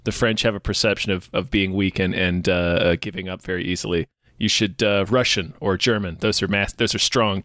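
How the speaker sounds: a hint of a blunt martial arts teacher; imitating the sensei. Retelling the sensei's advice.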